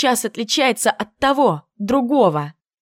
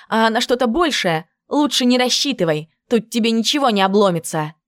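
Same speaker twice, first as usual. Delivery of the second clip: rude brash tone. Acted. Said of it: "Включила я хамку".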